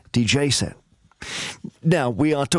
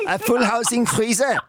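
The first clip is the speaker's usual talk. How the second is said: laughing; 6 semitones higher than usual. Real, not acted. Laughing at the misheard word.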